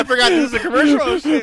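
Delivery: high, rapid exclamation; loud outburst. Real, not acted. Podcast guest realizing it's a commercial, loud excited outburst. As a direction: burst in loudly, amused surprise. Laughing outburst at sudden sales pitch.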